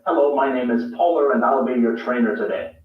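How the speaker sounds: British trainer. Retold or imitated. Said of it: "I once had a British on-the-job trainer".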